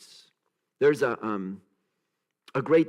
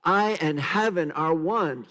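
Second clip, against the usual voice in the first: sincere affirmation; 2 semitones higher, 4 dB louder than usual. Shown as a demonstration. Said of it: "Try this".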